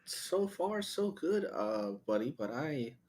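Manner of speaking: lightly put-on Canadian accent. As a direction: slip into a friendly Canadian accent. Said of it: "went into the Canadian accent".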